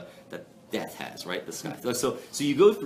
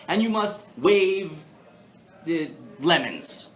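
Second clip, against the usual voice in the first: paraphrasing the Torah; 4 semitones higher, 3 dB louder than usual. Retold or imitated. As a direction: read it like a solemn law code. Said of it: "It will say something to the effect of".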